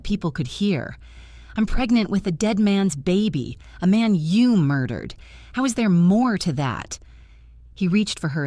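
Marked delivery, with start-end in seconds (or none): 1.6-7.0 screaming. Acted. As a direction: yell it in disbelief. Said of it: "She was screaming now".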